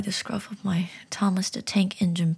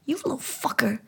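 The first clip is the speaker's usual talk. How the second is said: strained curse, higher in pain; higher pitched; 5 semitones higher than usual. Acted. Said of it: "It was a pitch higher than normal".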